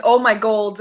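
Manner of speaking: "gold" said in place of "God". Retold or imitated. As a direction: end the phrase on "gold", with an L. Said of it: "I'm like".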